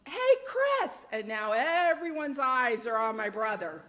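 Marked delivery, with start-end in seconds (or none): 0.1-1.1 high loud call across the yard; yelling. Retold or imitated. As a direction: shout his name to get him over. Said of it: "my sister yells".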